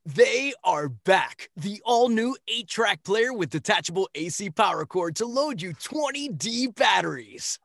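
big booming commercial voiceover, slow and loud; retro ad announcer. Acted. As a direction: sell it like an old radio spot. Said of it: "go ahead and take it away".

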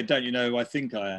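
chuckling over the twisted catchphrase "Don't you know who I think I am?"; amused, self-mocking delivery; laughing joke. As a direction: say it as a joke on yourself. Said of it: "I'd be more likely to say".

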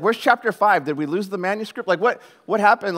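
animated, mock-indignant confusion; worked-up comic bewilderment; baffled disbelief. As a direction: fire off bewildered questions. Acts out bafflement at abrupt ending.

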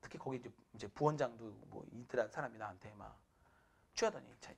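ordinary delivery

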